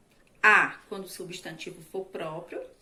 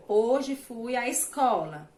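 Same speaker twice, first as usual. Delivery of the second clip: slow example reading; 2 semitones higher, 4 dB louder, slower than usual. Shown as a demonstration. Teacher reading an example sentence to pupils, slow and clear. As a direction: read the example sentence slowly and a little louder. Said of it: "por exemplo".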